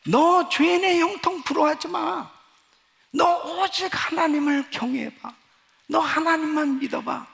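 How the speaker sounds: preacher voicing God's rebuke, forceful and high; God's voice, commanding. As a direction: speak as God urging him directly. Voicing God's word to him.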